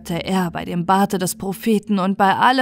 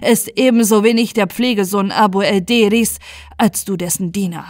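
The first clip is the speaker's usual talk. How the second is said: louder, relentless accusation; accusing grand vizier; 4 dB louder than usual. Acted. Grand vizier accusing Ismail before the caliph, louder. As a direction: lay out his lies one by one.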